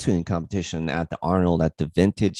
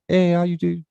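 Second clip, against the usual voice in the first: put-on a light, half-hearted African accent; hint at the Uber driver's African accent; 8 semitones higher, 4 dB louder than usual. Imitating the Vegas Uber driver's greeting, light African accent. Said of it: "super thick African accent".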